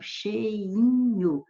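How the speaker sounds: "cheinho" dito devagar, em hiato; vogais separadas. Shown as a demonstration. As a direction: say "cheinho" with e and i apart, the i held. Palavra-exemplo com vogal repetida alongada. ("cheinho" com o i separado e alongado)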